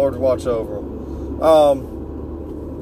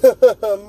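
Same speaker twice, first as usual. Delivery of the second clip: smirking laugh; 5 semitones higher, 5 dB louder than usual. Retold or imitated.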